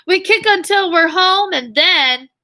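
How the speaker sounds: lively, sing-song storybook read; bouncy picture-book reading voice; reading to children. A narrator's reading. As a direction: read the rhyme aloud to young kids. Teacher reading picture book aloud.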